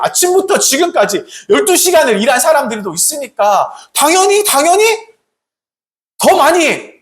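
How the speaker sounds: acted-out hopeful reasoning, lifting in pitch; expectant workers. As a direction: voice the workers' rising hopes. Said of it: "이런 마음을 그렇게 생각한 것입니다".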